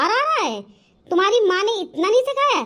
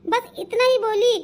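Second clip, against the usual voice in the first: acted crying. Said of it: "जो मेरी माँ रो रही है".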